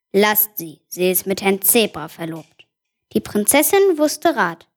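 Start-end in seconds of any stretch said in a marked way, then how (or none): 0.1-2.5 low, stern king's voice; deep voice. Acted. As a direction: speak it low like a king. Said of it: "mit tiefer Stimme". (tiefe Königsstimme)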